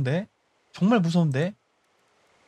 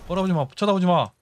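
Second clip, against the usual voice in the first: ordinary delivery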